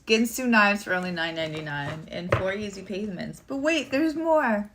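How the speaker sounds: mock infomercial announcer; infomercial pitch. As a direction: parody a shopping-channel ad, stretching the final hook. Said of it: "This is the worst commercial ever".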